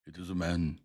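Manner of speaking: excited ape man gabble; gabbling. A narrator's reading. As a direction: blurt it out eagerly. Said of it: "gabbled my conductor".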